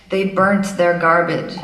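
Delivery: weighty American newsreader, drawn out; American accent. Acted. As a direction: put on a portentous American presenter accent. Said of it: "That was my American accent".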